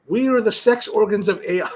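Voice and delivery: amused reading, laugh breaking in; laughing while reading. Real, not acted. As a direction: crack up as you read the line. Reads comment, laughing.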